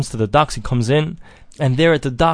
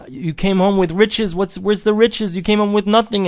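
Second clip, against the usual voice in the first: upset wife; 7 semitones higher than usual. Acted. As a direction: reproach him as a wife upset at empty hands. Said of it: "his wife is all upset at him".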